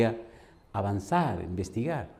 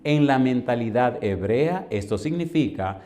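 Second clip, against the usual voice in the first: solemn preaching; much slower than usual. Real, not acted. Solemn doctrinal explanation.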